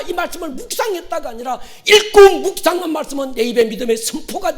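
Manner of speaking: loud, high-pitched sermon delivery; impassioned preacher in full cry; preaching at full force. Real, not acted. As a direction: drive each phrase home to the congregation.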